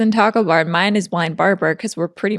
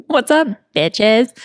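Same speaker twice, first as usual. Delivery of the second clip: mock announcer; much slower than usual. Shown as a demonstration. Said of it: "you would be like".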